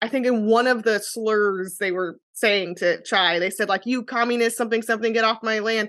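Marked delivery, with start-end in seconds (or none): none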